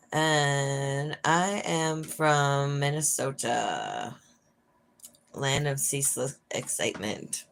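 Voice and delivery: slow, dry sarcasm about her home state; deadpan, as if it were thrilling; dry mock enthusiasm; sarcastic. Shown as a demonstration. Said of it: "Yeah, that's sarcasm".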